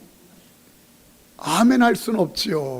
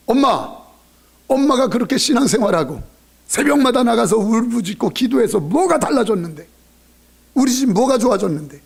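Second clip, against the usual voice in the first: put-on mildly raised, complaining child; acted reproach; 3 semitones higher than usual. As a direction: challenge mother with mock exasperation.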